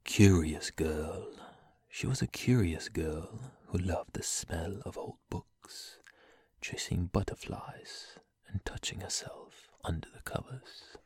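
put-on sultry British accent, whispered lines; sexy British voice. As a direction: purr it in a seductive British accent. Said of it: "Let me get my sexy British voice going".

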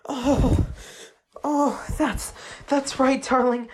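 loud, breaking cries of pleasure; ecstatic cry. Acted. Lover crying out to her partner, ecstatic and loud. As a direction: let the words crack with rapture.

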